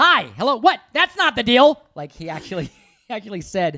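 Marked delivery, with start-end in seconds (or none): 0.0-1.8 pushy agent phone voice, very loud and high. Acting out how he answered a call while driving: loud agent voice. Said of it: "I'm about to do loud agent voice".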